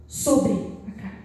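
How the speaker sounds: whispered echo. Acted. Preacher echoing his point to the congregation in a whisper. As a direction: breathe the words back as an echo.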